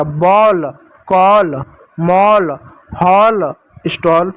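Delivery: one word at a time, sounding औ in बॉल, कॉल, मॉल, हॉल, स्टॉल; open "au" vowel. Shown as a demonstration. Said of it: "औ की मात्रा". (बॉल, कॉल, मॉल, हॉल, स्टॉल में औ की मात्रा का उच्चारण)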